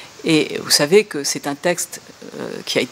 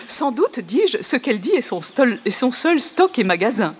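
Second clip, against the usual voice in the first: higher reading, breaking into laughs; reading through laughter; 3 semitones higher than usual. Shown as a demonstration. Lecturer laughing at Google's odd lines, reading through giggles. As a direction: try to read while giggling. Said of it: "bon, ça continue".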